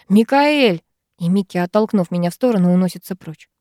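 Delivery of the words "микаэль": higher, louder call of a name. A narrator's reading. Arvid calling out to Mikael, raised and high. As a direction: shout his name from another room. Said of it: "Арвид кричит".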